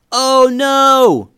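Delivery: high, loud cry of alarm; panicked yell. A narrator's reading. Boy spotting the squirrel chasing him, panicked yell. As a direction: shriek it as the squirrel appears. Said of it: "yelled Eli".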